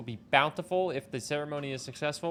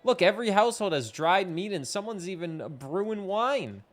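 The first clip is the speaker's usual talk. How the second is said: lightly voiced caring friend; gentle, a bit higher friendly girl; caring villager voice; 6 semitones higher than usual. Reads game character lines.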